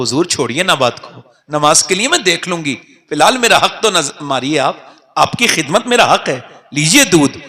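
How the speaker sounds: soft, gentle pleading to the master; lovingly. Retold or imitated. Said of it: "بڑے پیار سے باتیں کی". (بیٹی پیار سے نرم لہجے میں کہتی ہے)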